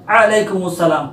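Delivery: अलैकुमुस्सलाम with a clear a on ain; correct wa alaikum. Shown as a demonstration. Teacher modelling correct व अलैकुमुस्सलाम. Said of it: "वाव पर ज़बर".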